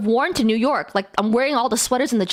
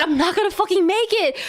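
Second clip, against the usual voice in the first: laughing despair; 5 semitones higher, faster than usual. Retold or imitated. Panic retold while running.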